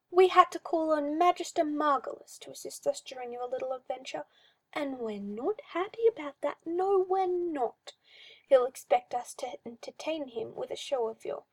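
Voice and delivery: a hint of a creepy, cooing master; mildly sinister coaxing; lightly voiced oily magister. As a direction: purr it like a condescending owner. Magister complaining to pet.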